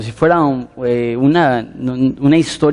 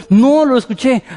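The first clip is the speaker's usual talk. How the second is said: put-on insistent girl; 8 semitones higher than usual. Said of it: "the girl insists".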